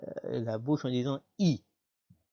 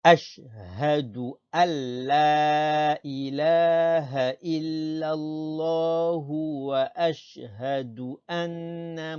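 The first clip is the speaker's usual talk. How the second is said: sustained, level chanting tone with long vowels; Arabic recitation; 3 semitones higher than usual. Shown as a demonstration. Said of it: "On reprend depuis le début".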